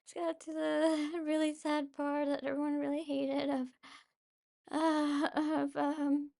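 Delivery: a bit choked up. Real, not acted. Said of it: "if you hear me sob a little bit".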